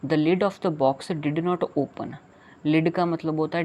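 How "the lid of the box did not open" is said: very slow reading. Shown as a demonstration. Reading poem line to children.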